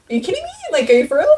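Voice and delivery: freaking out. Retold or imitated. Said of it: "trying not to freak out".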